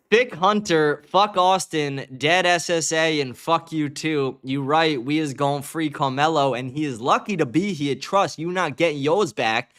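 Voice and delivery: slow, badly faked African American accent; mock Black American accent. Streamer mockingly reading a Facebook post, badly faked African American accent. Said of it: "I'm trying to read it in, like, my best black accent".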